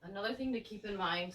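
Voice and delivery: hoarse from a cold; raspy sick voice. Real, not acted. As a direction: talk through a raspy throat. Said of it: "I'm coming in with my raspy, sick voice".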